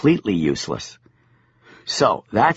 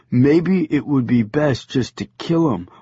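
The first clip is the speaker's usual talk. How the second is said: angel voice. Acted. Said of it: "I heard him say".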